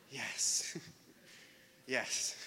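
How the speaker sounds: a low, hushed, satisfied yes; quiet relieved yes. Retold or imitated. Pastor acting out secret joy at cancelled plans, hushed yes. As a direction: savor the cancelled plans under your breath.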